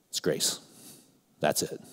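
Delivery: softly, almost whispered; hushed. Real, not acted. Preacher lowering his voice to stress grace, hushed. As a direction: drop to a hush on the key truth.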